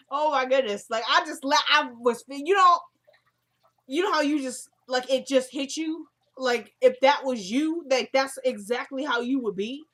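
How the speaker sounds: high, loud, gushing and overwhelmed; excited. Real, not acted. Recapping an emotional scene to viewers, high and loud excitement. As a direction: pour it out, all worked up by the scene.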